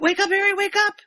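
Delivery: high, loud, urgent pleading; Dudley pleading over collapsed Harry; pleading shout. Retold or imitated. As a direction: beg him to wake up. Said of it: "he's like".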